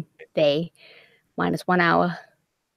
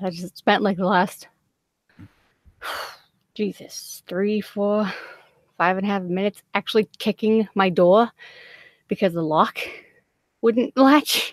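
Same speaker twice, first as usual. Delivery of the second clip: talking while catching breath; shallow breathing. Real, not acted. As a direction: still winded, short breaths. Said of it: "I'm sorry I'm out of breath".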